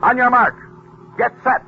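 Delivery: loud, high race-starter call; starter's call. Retold or imitated. Narrator voicing the starter at the speedboat line, loud call. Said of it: "He heard the starter say".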